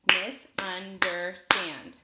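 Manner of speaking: "Misunderstand" loud and slow in four beats, Mis, un, der, stand; split into syllables. Shown as a demonstration. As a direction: punch each syllable of "Misunderstand" separately. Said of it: "I'll clap it out".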